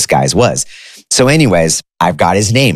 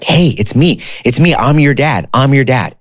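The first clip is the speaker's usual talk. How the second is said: eager, higher retelling of dad's joy; thrilled; 7 semitones higher than usual. Retold or imitated. Long-lost dad calling his son, imitated thrilled greeting. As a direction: lift the voice with a father's excitement.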